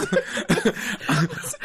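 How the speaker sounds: laughing. Real, not acted. Guest laughs at own slang.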